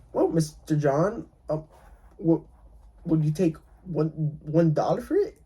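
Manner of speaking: lowball offer tossed off with a chuckle in the voice; laughing tone. Shown as a demonstration. Investor jokingly offers Mister John one dollar, laughing tone. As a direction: say it like a joke so nobody takes it seriously. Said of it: "You gotta say it in a laughing tone".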